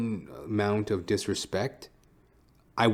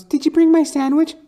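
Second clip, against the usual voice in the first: much higher, louder, mock girlish voice; film noir dame; 12 dB louder than usual. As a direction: play the dame, high and breathy-sweet in parody. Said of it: "She goes".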